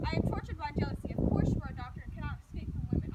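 loud, tormented confession; jealous outburst. Acted. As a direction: pour out the jealousy at full voice.

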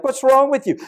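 high, loud baffled question; mock alarm. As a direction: toss it up high like a puzzled coach. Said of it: "I'm like".

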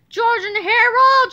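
loud, high, stretched-out summons; angry shout. A narrator's reading. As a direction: holler the names slowly across the room. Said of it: "shouted Mister Krupp".

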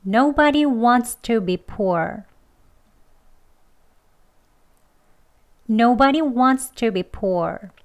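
Nobody wants to be poor, very slow; slow deliberate model sentence; slowly. Shown as a demonstration. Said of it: "천천히 두 번 해볼게요".

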